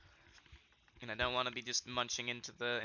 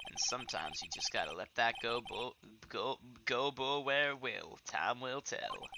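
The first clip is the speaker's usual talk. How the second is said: folksy cowboy cop, slowing down his sayings; lazy Southern cowboy musing; cowboy detective. Acted. Cowboy detective character lines.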